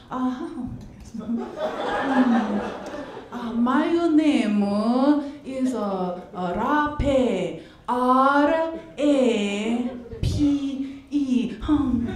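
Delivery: lightly put-on Asian accent, slow and hesitant; fresh-off-the-boat accent. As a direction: spell the name out slowly, as a mock immigrant. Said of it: "Pretend I'm fresh off that boat".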